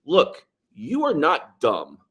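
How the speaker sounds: slow, earnest you are not dumb; a teacher's slow, sincere reassurance; sincere quote. Retold or imitated. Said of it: "he goes".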